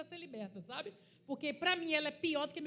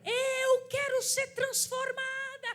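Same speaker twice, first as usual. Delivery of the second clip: high, slow, loud desperate crying out; slow pleading shout, high and loud; retold desperate shout; 9 semitones higher, 4 dB louder, much slower than usual. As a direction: cry out to Jesus, pleading. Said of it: "Ela gritava assim".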